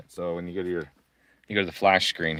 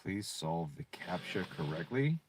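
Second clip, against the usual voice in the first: whispered readout; 8 dB quieter, slower than usual. Pretend. Reading captcha prompt aloud.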